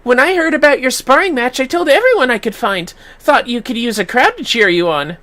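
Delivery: bright, pleased; lightly voiced proud organiser; boasting about the crowd; cheerful friend. Cheerful NPC.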